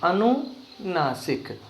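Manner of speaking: अनुनासिक said very slowly, syllable by syllable; slow syllable drill. Shown as a demonstration. Teacher repeating अनुनासिक slowly so pupils learn it. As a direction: stretch अनुनासिक out slowly for them to copy. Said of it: "उसका नाम है अनुनासिक".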